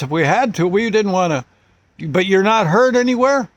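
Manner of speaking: stunned he slept through bullets; amazed cop. Retold or imitated. Cop tells the father he slept through a gunfight, amazed.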